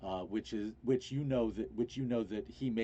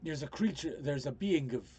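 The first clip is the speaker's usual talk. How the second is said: lightly voiced character, halting and pitched up; rescued man, urgent; 4 semitones higher than usual. Man warns of a planet brought to Terra, mildly agitated. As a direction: stammer out the warning, restarting as you go.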